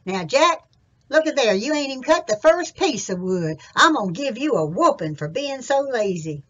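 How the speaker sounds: loud scolding mountain daddy. Acted. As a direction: bawl him out like an angry pa. Daddy scolds lazy Jack.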